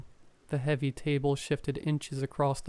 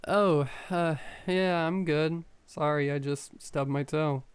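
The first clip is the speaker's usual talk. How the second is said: shaky voice. Acted. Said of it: "I responded back in a shaky voice".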